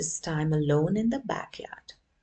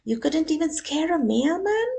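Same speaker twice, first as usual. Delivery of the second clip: loud taunt; 10 semitones higher, 6 dB louder than usual. Acted. Doberman taunting Alfred.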